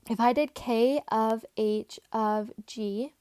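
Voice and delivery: hoarse, scratchy tired voice. Real, not acted. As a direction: voice going rough and hoarse. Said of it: "I sound like a smoker".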